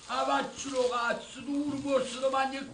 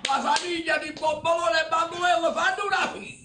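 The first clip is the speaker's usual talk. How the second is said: mocking laugh rant; 4 semitones higher, 4 dB louder than usual. Mocking the family in quarrel.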